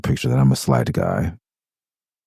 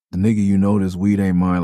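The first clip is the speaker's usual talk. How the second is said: tense defensive voice; 2 semitones higher than usual. Retold or imitated. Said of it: "that voice".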